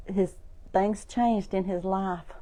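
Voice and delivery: hushed storyteller; dropped soft. Shown as a demonstration. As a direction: let it sink low and quiet. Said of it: "one day".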